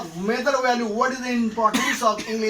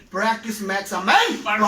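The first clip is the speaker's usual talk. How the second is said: quoted proverb. Shown as a demonstration. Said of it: "why it has been said".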